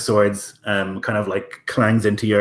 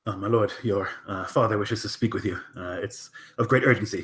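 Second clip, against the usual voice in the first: softer, deferential servant's report; meek servant; 7 dB quieter than usual. Acted. Servant humbly telling the prince his father waits, softly.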